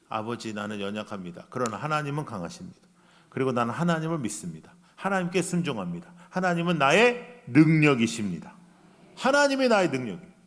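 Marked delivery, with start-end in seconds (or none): 0.1-8.5 soft, lower, sincere prayer to Father; quiet humble prayer. Shown as a demonstration. Modelling for the congregation a humble prayer, soft and sincere. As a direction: pray it humbly, softly. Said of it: "거기까지 가야 돼요".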